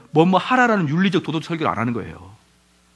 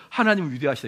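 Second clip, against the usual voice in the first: mock Calvinist sermon line; 3 semitones lower, 5 dB quieter than usual. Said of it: "이렇게 나오잖아요".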